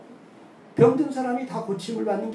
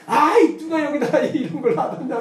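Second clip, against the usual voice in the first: higher, louder mock snap at a spouse; angry blame; 7 semitones higher, 6 dB louder than usual. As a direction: play a bickering spouse, loud and higher. Quarreling couple blaming. (싸우는 부부의 높고 큰 호통 흉내)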